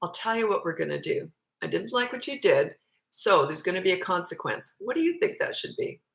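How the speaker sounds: calm, even parent voice; calm discipline. Shown as a demonstration. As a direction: lay down the consequence calmly, without anger. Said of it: "why do you always stress the word calm?".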